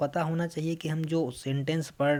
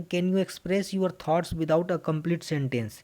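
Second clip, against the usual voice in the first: slow reading; much slower than usual. Acted. Teacher reads slide question.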